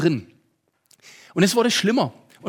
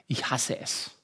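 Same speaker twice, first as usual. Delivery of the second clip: hushed dread; 6 semitones lower, 7 dB quieter than usual. Retold or imitated. Retold inner dread at work.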